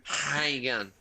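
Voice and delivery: "How you going" slurred into one breath; Aussie one-word greeting. Shown as a demonstration. Guest trying the slurred Aussie greeting, blended together. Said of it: "you nailed it".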